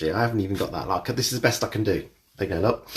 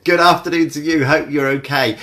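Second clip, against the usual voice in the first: put-on Australian accent; 3 semitones higher, 6 dB louder than usual. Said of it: "I'm in Australian again".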